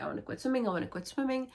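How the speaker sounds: lightly mocked insistent whine; mock pleading. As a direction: repeat it high, imitating a nagging plea. Voicing Emily repeatedly asking to quit.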